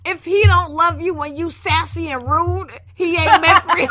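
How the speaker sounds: mock meme quote. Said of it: "ones on relationships".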